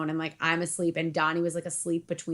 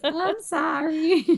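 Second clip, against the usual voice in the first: sheepish apology; 8 semitones higher, much slower than usual. Retold or imitated. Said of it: "I was like".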